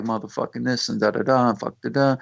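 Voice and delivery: imitating rappers' filler cussing; throwaway cuss words. Studio guy mimicking rappers who come in, throwaway cussing. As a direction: toss the curses off as connectors. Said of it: "don't use them as connectors".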